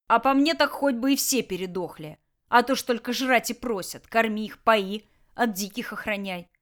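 lazy threatening boss voice; gruff bandit boss. Acted. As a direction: bandit leader menacing his prisoners. Tolyan grumbles.

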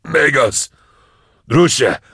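very high, loud, desperate; frantic shouting. Acted. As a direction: yell him back to safety. Calling after him.

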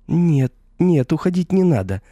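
shrill high squeal of panic. A narrator's reading. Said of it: "взвизгнула девчонка".

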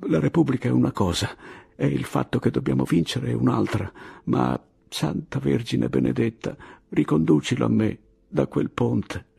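anguished plea under her breath; desperate prayer. Acted. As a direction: beg the Virgin, half-breathless. Maria's frantic silent prayer.

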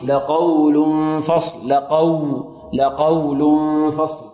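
slow recitation of لقول with a smooth و glide; soft waw glide. Shown as a demonstration. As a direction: draw out لقول فصل, easing through the و. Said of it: "الواو هنا حرف لين".

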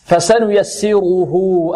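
slow فسنيسره with light seen and heavy, full raa. Shown as a demonstration. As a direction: thicken the ر in فسنيسره, keep the س thin. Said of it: "السين مرققة والراء مفخمة". (فسنيسره بسين مرققة وراء مفخمة)

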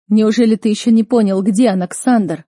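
loud, urgent appeal. A narrator's reading. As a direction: get through to him. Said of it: "пытался достучаться до меня Нейман".

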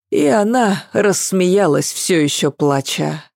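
usual speaking voice

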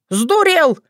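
jumps up high in outrage; a sharp, high cry of disbelief; outraged shock. Acted. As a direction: tsar leaping off his throne in shock. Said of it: "Царь аж подпрыгнул на троне".

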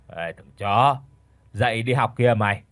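sleepy, slurred mumble; slurred drowsy voice. Acted. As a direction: drag the words out half asleep. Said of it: "cậu nói với cái giọng lè nhè".

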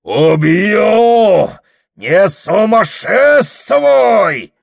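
очень громко и высоко; греми угрозой; громовой рёв. Acted. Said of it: "Гремит дьякон". (дьякон гремит на Прохора)

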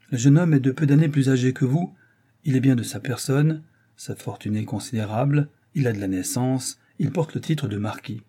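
a hint of a self-important father addressing his daughter; oratorical father. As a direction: announce it as a great occasion. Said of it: "méditait un effet oratoire".

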